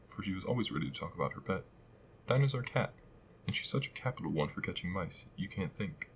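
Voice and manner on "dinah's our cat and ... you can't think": eager. Acted. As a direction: gush about her pet. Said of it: "Alice replied eagerly".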